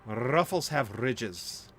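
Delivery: slow commercial tagline read; ad slogan voice. Shown as a demonstration. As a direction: draw out Ruffles like a TV ad. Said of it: "Ooh, I did that well".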